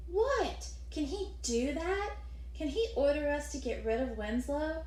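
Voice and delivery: high, outraged burst of protest; erupting boy. Acted. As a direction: burst out in disbelief. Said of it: "Louis erupted".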